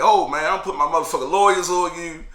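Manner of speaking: retold angry outburst at the guards; protesting. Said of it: "I'm protesting".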